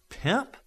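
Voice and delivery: Pimp? said high with each sound overdone; overpronounced. A narrator's reading. Virtuoso repeats the strange American word, overpronouncing Pimp?. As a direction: spell out Pimp? as if it were foreign. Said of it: "Virtuoso overpronounced the word".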